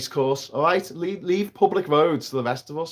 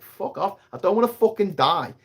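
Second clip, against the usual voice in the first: retold angry retort; 6 semitones higher than usual. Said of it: "I'm like".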